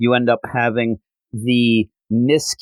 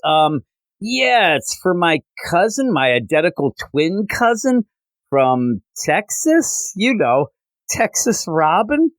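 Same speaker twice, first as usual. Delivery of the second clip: higher-pitched nervous fib, dragging out Texas Robin; flustered Robin; 6 semitones higher than usual. Retold or imitated. Robin lying to Starfire about a twin cousin, hammed-up and higher. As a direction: bluff like a caught-out hero inventing a cousin. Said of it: "And he goes".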